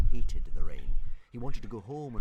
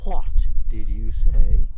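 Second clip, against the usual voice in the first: slow, menacing hiss; 2 semitones higher, 7 dB louder, much slower than usual. Acted. Fireworm hissing at Toothless, slow and menacing. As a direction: draw it out like a threat. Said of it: "hissed Fireworm".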